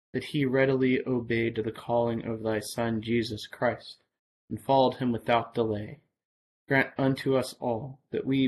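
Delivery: measured, solemn recitation of prayer; liturgical prayer. Acted. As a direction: intone the collect like an evening service. Reads the collect.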